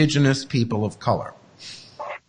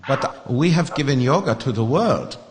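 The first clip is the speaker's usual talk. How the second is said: protesting swami in mock Indian accent; put-on Indian accent; attempted Indian accent; 2 semitones lower than usual. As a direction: plead the case in an Indian accent. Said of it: "I can't do the accent. I'm gonna try".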